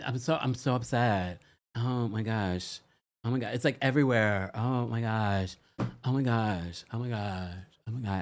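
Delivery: half-hearted mock dismay, oh my gosh on repeat; a hint of an upset Valley girl; Valley girl impression. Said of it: "Rachel does talk like a College Valley girl".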